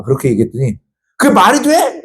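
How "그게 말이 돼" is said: mock outraged, pitched high; indignant retort. Girlfriend snaps back at her boyfriend, outraged and high. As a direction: act out her disbelief, shrill with anger.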